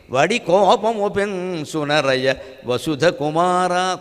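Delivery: very slow chanted closing line; verse recitation. Acted. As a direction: stretch each word of the verse. Finishes the verse. (చాలా నెమ్మదిగా పద్యం ముగింపు)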